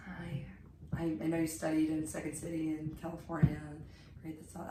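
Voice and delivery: soft, sweet fan greeting; sweetly. Retold or imitated. Jen greeting Kimberly J. Brown sweetly and softly. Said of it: "She so sweetly comes up to her".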